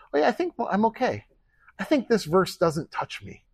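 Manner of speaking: imitating a complacent listener; mock self-assured. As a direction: wave it off as if untroubled. Mocks a self-satisfied reader.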